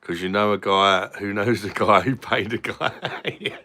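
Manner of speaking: slow line breaking into a laugh. Real, not acted. Joking about knowing a guy, laughing. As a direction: let laughter take over towards the end.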